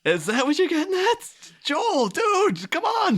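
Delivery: high, loud, exasperated yell; exasperated shout. Acted. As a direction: call him out in disbelief. Mock outrage at Joel Schumacher.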